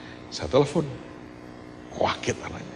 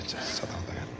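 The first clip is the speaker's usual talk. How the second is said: whispered "Saya tanda tangan" under the breath; 12 dB quieter than usual. Shown as a demonstration. Pastor murmuring to himself while signing, whispered.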